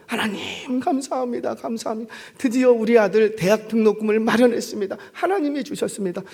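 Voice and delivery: high, choked thankful voice; crying with thanks; tearful gratitude. Acted. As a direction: thank God on the edge of tears.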